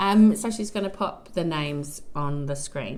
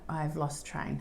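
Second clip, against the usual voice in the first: laughing; 2 semitones lower, 8 dB quieter than usual. Real, not acted. Laughs at losing her thread.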